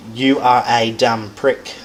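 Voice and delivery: "You" leaned on, slow delivery; slow sentence with weight on "You"; stress on YOU. Shown as a demonstration. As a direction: hit the word "You". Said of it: "that word that you emphasize is the subject".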